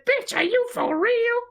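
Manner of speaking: high, slow hammed-up Morrison with a Black American accent. Answering the interviewer as Morrison, hammed-up Black American accent, high and slow. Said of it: "a Morrison accent out of reverence".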